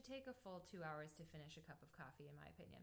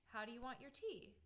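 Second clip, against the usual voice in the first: "How do you want your tea?" in an American question tune; 4 semitones higher than usual. Shown as a demonstration. Host showing how Americans ask, "tea" in American tune. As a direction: lift "tea" as an American asker would. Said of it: "In America, you would say".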